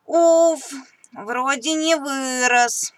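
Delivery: relieved. Acted. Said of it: "с облегчением думает он".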